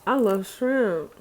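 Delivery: slow, relishing declaration; drawn-out food love; savouring. Real, not acted. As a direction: linger on each word like it tastes good.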